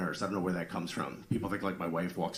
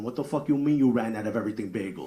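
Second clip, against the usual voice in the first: New Jersey. Retold or imitated. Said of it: "That's how she speaks".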